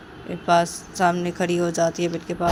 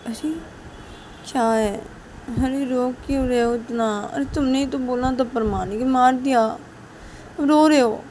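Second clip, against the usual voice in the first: teasing exasperation; 5 semitones higher than usual. Acted. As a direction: needle her a little, then stretch the end. Siya teasing, half apologetic.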